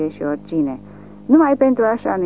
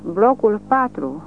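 ordin răstit; 4 semitones higher than usual. A narrator's reading. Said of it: "ordonă răstit".

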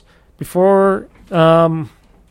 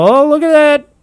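mocking taunt; 6 semitones higher than usual. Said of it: "Everybody's gonna laugh at Sony and go".

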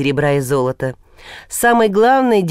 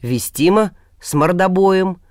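unbothered, level answer; calm reply. Acted. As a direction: say it coolly, no heat. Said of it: "спокойно ответил Илья".

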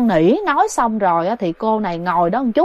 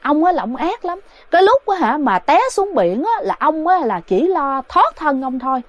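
high, raised accusing voice; possessed son scolding his father, lightly acted; 4 semitones higher than usual. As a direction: berate him while beating him. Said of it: "vừa đánh vừa chửi".

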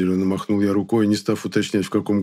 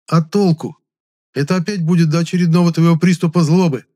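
angry retort; 9 semitones higher, 7 dB louder than usual. A narrator's reading. Scolding Klara.

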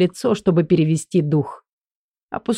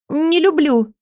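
Элли's voice; 10 semitones higher, slower than usual. Acted. Элли voiced, higher.

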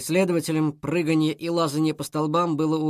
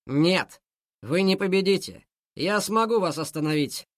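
angry defiance; 3 semitones higher than usual. Acted. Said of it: "разозлился Мотя".

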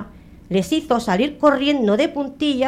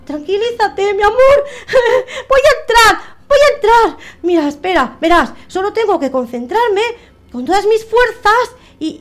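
high, loud tearful pleading with sobs; crying ghost; 12 semitones higher, 8 dB louder than usual. Acted. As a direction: beg her to stop crying while crying yourself.

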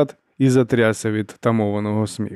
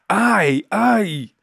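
high repeated yelps; yelps of pain; 10 semitones higher than usual. A narrator's reading. Captain yelping as the marshal hits his face. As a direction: yelp twice as struck. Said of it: "заволав Джизаль".

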